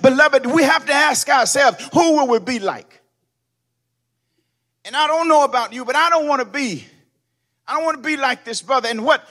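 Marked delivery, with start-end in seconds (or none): 0.0-3.0 loud, sung whooping sermon cadence; black church whoop, building and loud; preaching at full force. Acted. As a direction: ride the organ with a chanting preacher's cry. Preacher tuning again with organ.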